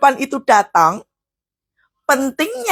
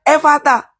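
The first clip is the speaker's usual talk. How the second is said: quoted command. Retold or imitated.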